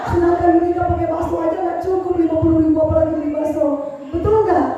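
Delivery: laughing through a mock rant; laughing mockery. Telling the pastor's wife about the broke boyfriend, laughing. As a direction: scoff at him between laughs.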